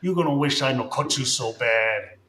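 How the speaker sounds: put-on laughing Mexican-accented gangster threat; mock Mexican threat. Streamer cracking up at own threat, mock Mexican accent.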